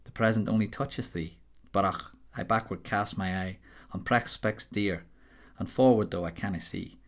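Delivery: modest attempt at a Scots accent reading Burns; apologetic amateur Scottish accent reciting a poem. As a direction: read the Scots verse in a Scottish accent, half-confident.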